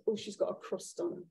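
quietly voiced, under the breath; hushed aside. Woman remarking on a departing rude woman, hushed aside. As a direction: mutter it like gossip behind her back.

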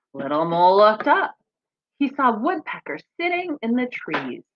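gentle storybook reading; reading to children. Acted. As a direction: read it to the kids like a picture book. Reads picture book aloud.

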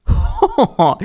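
high jolly ho-ho-ho; jolly laugh. Acted. The happy cat laughs over the jewels. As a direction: laugh with relief.

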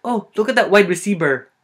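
high, loud "receiver" said as "receiber"; Filipino-accented "receiver", as "receiber". Shown as a demonstration. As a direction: exclaim it with B for V in "receiver". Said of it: "we confuse the V's and the B's".

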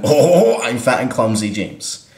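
slow, drawn-out oafish voice; mock jolly oaf. Mocking an actor's name to a friend, lightly voiced oaf. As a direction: open on a loud hooting ho-ho, then lumber slowly.

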